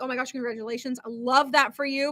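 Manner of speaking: mean every word for a close friend; gentle, genuine joy for a close friend; sincere congratulations. Retold or imitated. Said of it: "because I really do".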